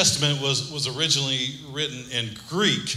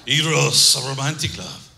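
mock Greek accent. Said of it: "This is not a Greek accent, but it just sounds so much better".

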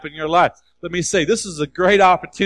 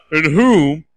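proclaimed louder; 2 semitones lower, 3 dB louder than usual. Acted. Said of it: "You gotta have it, okay?".

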